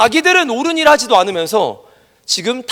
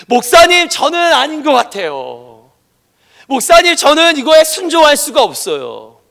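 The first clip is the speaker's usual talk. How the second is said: whiny excuse; 2 semitones higher, 3 dB louder, slower than usual. Retold or imitated. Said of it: "이러는 거예요".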